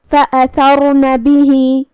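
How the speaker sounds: slow, drawn-out melodic tajweed chant; Quran recitation. Shown as a demonstration. Teacher recites the verse to students in a slow melodic chant. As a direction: recite each word slowly and melodically, letting the vowels ring.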